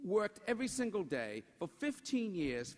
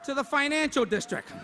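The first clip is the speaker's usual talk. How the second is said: building comic emphasis over laughter; mock grand punchline; 5 semitones higher, 5 dB louder than usual. Real, not acted. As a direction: sell the tiny route as epic. Punchline comparison to the crowd.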